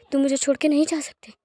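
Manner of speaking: voiced, firmer tearful plea; tearful plea aloud. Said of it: "आंसू बह रहे होते हैं".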